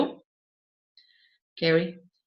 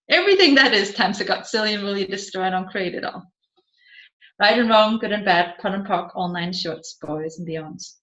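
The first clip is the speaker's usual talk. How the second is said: recited clearing statement. Acted. Facilitator reciting the clearing statement to the class, fading rote chant.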